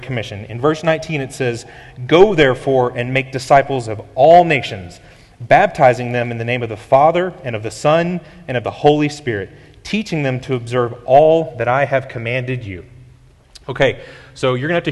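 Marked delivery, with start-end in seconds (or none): 2.1-12.8 scripture reading. Acted. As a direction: proclaim the scripture to the church. Reads the Great Commission aloud.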